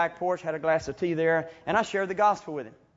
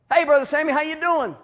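cheery greeting; 10 semitones higher, 11 dB louder than usual. Retold or imitated. Voicing Ricky's phone calls.

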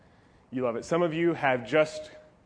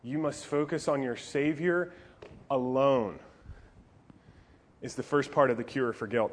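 ordinary talk, nothing marked

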